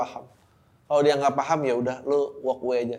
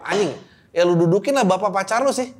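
exasperated outburst; 5 semitones higher, 5 dB louder than usual. Real, not acted. Exasperated answer to listener.

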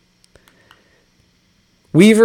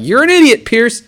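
mock tweeter; 8 semitones higher than usual. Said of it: "everybody tweets at me".

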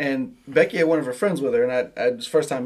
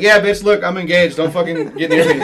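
mock rude; 3 semitones higher, 6 dB louder than usual. Imagined rude version of himself.

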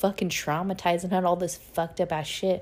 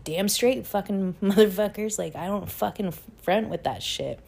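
cocky retort; 5 semitones higher than usual. Retold or imitated. Telling her ex she never fronts, laughing and cocky. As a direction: toss it back proud and amused.

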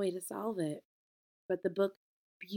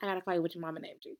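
pointed; faster than usual. Real, not acted. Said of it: "I can't call him Black".

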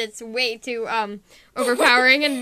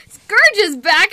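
usual speaking voice

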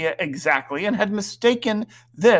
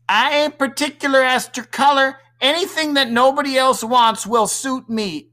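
put-on high-pitched girl showing off her manners; best genteel air; 9 semitones higher, 4 dB louder than usual. A narrator's reading. Peory answering mother in the dinner rehearsal, with affected gentility. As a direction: put on your finest company manners. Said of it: "answered Peory with her best air".

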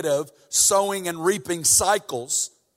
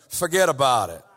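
put-on New York accent; 4 semitones lower than usual. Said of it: "Jesus with a New York accent".

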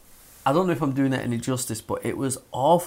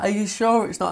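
pleading woman; 9 semitones higher than usual. Retold or imitated. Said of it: "she was like".

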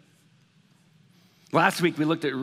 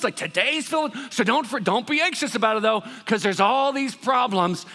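mock glib pastor; 4 semitones higher than usual. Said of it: "you kinda go".

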